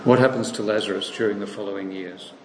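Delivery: "What happens to Lazarus" run through briskly; rapid second asking with no stress on "What". Shown as a demonstration. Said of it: "This is the question".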